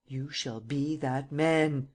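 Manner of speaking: slow, heavy vehemence; vehement. Acted. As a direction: lay down each word slowly, vehement. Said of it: "with unparalleled vehemence".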